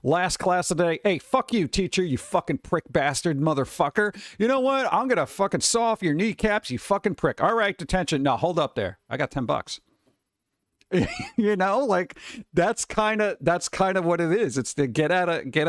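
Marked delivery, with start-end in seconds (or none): 1.0-9.8 angry student rant. Acted. Acting a rude student's tirade.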